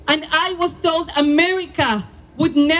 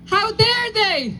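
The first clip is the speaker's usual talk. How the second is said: slow, indignant call; 3 semitones higher, slower than usual. Real, not acted. Call and response with crowd.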